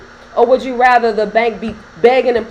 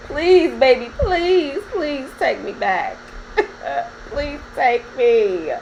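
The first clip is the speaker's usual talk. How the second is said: fake-sobbing begging, slow and breaking; hammed-up tearful please; mock crying plea; 3 semitones higher, much slower than usual. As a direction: someone begging an ex to take them back, fake sobs.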